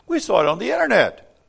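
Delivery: high, loud shout; excited shout. Acted. The birds shout their proof to Freddie Fox, loud high shout. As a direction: blurt it out all at once. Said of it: "They all shout".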